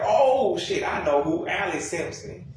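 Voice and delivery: retold sudden realization. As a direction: act out it suddenly clicking.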